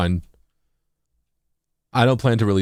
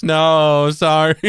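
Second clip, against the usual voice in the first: laughing; 10 semitones higher, 5 dB louder, much slower than usual. Real, not acted. Laughing after joke.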